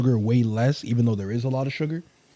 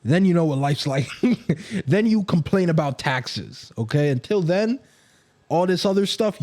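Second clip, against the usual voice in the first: lecturing parent. Acted.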